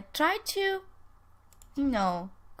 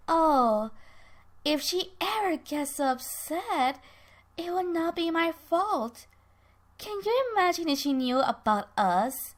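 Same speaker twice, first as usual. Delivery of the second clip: higher-pitched, amused provocation; smiling taunt; 5 semitones higher than usual. Acted. Ben amused by Herb's anger over Coral, smiling taunt. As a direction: needle them through a smile. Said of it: "She's smiling and she's like".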